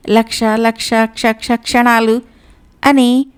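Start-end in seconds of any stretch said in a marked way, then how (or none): 0.1-2.2 tongue-tied stumbling over the count; confused stammered counting; muddled counting. A narrator's reading. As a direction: trip over the numbers, losing track. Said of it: "లెక్క కట్టడంలో తికమకలు పడుతుంటే".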